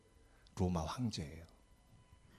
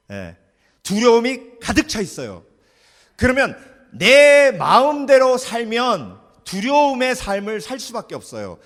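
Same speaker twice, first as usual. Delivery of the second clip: loud, high preaching build; impassioned sermon delivery; fiery preaching; 7 semitones higher, 13 dB louder than usual. Real, not acted. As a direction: preach it hard to the congregation. Preaching at full force.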